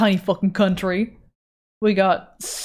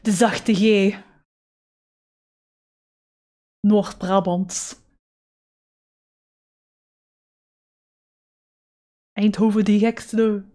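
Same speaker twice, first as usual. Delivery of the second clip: Brabant soft G; slower than usual. Retold or imitated. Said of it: "That's not me, that's my friend".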